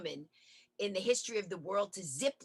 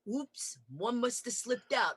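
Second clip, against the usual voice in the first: dad's sheepish excuse; 4 semitones higher, slower than usual. Retold or imitated. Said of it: "he goes".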